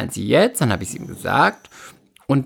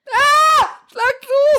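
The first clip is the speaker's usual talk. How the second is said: viel höher und lauter gerufenes Kommando; mock yell; 5 dB louder, much slower than usual. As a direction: quiek es spöttisch heraus, schlag zu. Freund drängt sie zuzuschlagen. (Freund ruft spöttisch hoch und laut: schlag zu)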